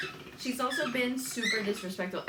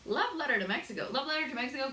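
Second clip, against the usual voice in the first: mimicking a scornful, disbelieving crowd; higher-pitched mock disbelief, repeating the question; incredulous echo; 6 semitones higher, much faster than usual. Mexicans react to Zoe's love letter remark, incredulous.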